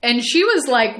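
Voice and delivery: usual speaking voice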